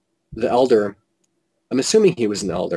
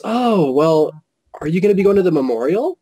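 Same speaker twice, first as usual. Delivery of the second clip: raised-pitch imitation of a lady; lady at the table; 6 semitones higher than usual. Lady sounding out the visitor about the memorial, high imitated voice. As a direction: mimic her lilting question, higher. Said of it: "She goes".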